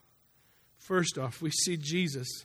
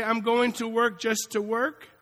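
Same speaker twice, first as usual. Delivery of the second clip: voiced loud and high, a bit slow; mock loud boast; 6 semitones higher, 7 dB louder than usual. Preacher mocking a worker's proud, loud claim. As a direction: belt out the lazy worker's line.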